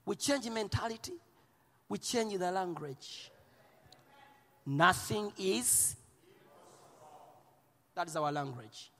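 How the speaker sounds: softened. Acted. Preacher quietly drawing the crowd in, softened voice. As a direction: bring it down quietly.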